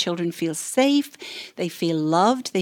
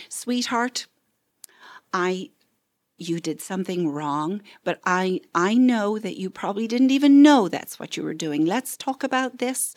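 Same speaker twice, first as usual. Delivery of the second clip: gentle parent demo. Shown as a demonstration. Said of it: "which just means saying".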